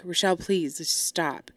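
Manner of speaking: gently implore, as retold; retold pleading. Mom looks up at her daughter, retold pleading. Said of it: "she starts pleading with me".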